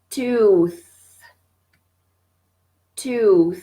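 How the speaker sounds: "Tooth" with a clear tongue-between-teeth th at the end; TH pronounced. Shown as a demonstration. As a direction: stress the th of "Tooth" with the tongue visible. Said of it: "le T H". ("Tooth" avec le th bien prononcé)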